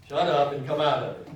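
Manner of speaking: loud, sharp, "Shut" hit hard; blunt rebuke. Retold or imitated. Preacher voicing Jesus rebuking the spirit, loud and sharp. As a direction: bark the rebuke at the demon. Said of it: "So he tells this man".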